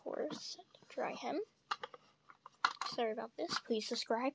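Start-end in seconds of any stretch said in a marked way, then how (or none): 0.1-1.4 whisper. Real, not acted. Whispering an aside to someone.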